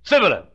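Sibboleth with a plain s for sh; mock mispronunciation. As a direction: say Sibboleth without the sh. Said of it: "He couldn't say it".

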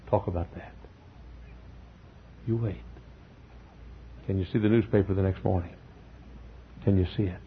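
dropped low and soft, drawing the congregation in; hushed preaching. Acted. Hushed vivid end-times description.

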